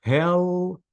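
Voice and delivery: "Healthy" split as hel, thee, both held; two syllables. Shown as a demonstration. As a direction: slowly sound out "Healthy" in two beats. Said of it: "two syllables".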